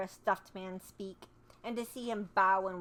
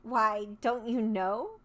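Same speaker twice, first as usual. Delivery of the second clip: surprised; 4 dB louder, slower than usual. Acted. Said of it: "she returned in surprise".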